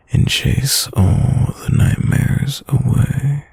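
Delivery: slow, soothing lull. Acted. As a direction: ease them toward sleep, slowly. Soothing partner to sleep.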